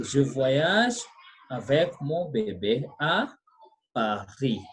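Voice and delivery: "Je voyage avec mon bébé à Paris" in careful phrases, final consonant of Paris silent; model French reading. Shown as a demonstration. French teacher models sentence after student's attempt, careful pronunciation. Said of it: "So we say bébé".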